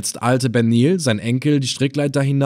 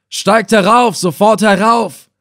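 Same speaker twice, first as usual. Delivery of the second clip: much higher, loud, urgent shout; excited call; 9 semitones higher, 7 dB louder than usual. A narrator's reading. Reis Effendina shouting down to the boat, excited and urgent. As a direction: call them up at once, agitated. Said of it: "rief er in erregtem Tone".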